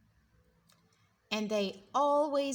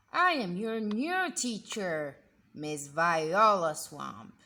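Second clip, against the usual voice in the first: stern witchy teacher; 4 semitones lower, 5 dB louder than usual. Acted. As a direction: announce yourself to cower them. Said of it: "an unpleasant voice".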